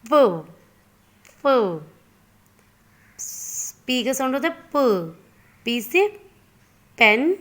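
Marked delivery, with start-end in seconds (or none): 0.1-1.6 प said as a short crisp puh, repeated; teacher repeating the sound प; phonic sound demo. Shown as a demonstration. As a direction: model प for kids. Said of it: "Sound of P is".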